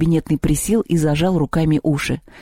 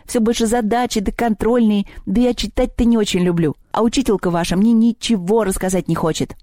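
high-pitched, self-pitying goblin voice; plaintive little house spirit; grumbling house goblin; 6 semitones higher than usual. Acted. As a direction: explain your grievances in a high goblin whine.

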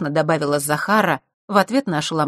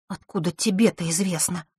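sullen. Acted. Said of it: "угрюмо спросила Василиса".

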